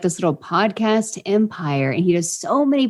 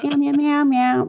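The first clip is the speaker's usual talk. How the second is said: high cat-like meows; meowing along; 8 semitones higher than usual. Retold or imitated. Station worker meowing along to a band, high put-on cat sound. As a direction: meow a tune in place of the words. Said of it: "I'm just meowing to it".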